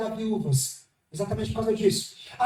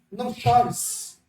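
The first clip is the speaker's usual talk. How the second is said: very slow, gentle line; slow tender comfort; much slower than usual. Acted. Jesus telling the mother not to cry, slow and tender. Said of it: "chega alguém chamado Jesus Cristo e fala assim".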